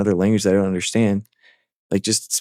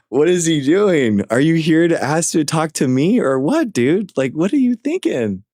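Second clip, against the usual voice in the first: high-pitched, incredulous, slowed start; exasperated disbelief; 7 semitones higher than usual. Real, not acted. Streamer to guest speaking French, disbelieving. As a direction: throw up your hands in disbelief.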